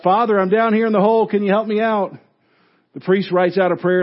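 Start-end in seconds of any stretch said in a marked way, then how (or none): 0.0-2.1 higher, louder, fast call for help; retold shout. Man in the hole yells to the passing priest, urgent. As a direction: yell up to the priest, hurried. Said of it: "the guy shouts out".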